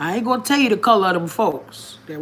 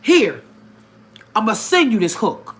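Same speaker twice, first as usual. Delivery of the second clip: voicing God; 4 semitones higher than usual. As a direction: play God sending help, lightly. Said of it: "he said".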